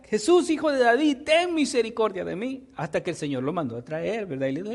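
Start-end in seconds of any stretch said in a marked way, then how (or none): 0.0-2.7 insistent call, opening high; imitated louder cry. Blind man persists despite being hushed, imitated louder cry. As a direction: keep calling as the persistent beggar, mildly raised. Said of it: "él seguía y hablaba más fuerte".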